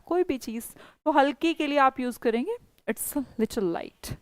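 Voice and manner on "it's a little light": slow model sentence. Shown as a demonstration. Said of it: "teacher gives the English".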